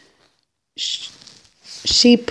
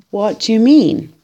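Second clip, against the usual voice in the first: alarmed question; 6 semitones higher, 5 dB louder than usual. A narrator's reading. Boy alarmed at Mama's words.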